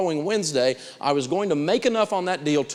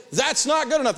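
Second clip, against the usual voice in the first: "That's not good enough" raised high and firm; a firm, high-pitched "That's not good enough"; firm demonstration; 10 semitones higher than usual. Shown as a demonstration. Buyer rejecting a car price, firm "That's not good enough". Coach demonstrates the stock reply.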